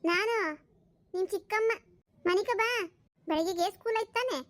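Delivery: lightly voiced aunt figure; brisk stepmother. Stepmother tells boy to sleep, brisk. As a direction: coax the boy firmly to bed.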